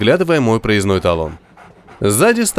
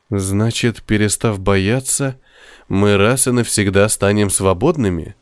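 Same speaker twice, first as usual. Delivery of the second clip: through gritted teeth; 3 semitones lower than usual. Acted. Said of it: "Сквозь зубы процедил я".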